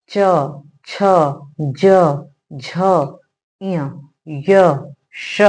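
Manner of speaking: each of च छ ज झ इय य श said slowly and separately, tongue tip on the palate; palatal sounds demo. Shown as a demonstration. Teacher shows students how to pronounce palatal letters, carefully sounding each one. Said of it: "कैसे?".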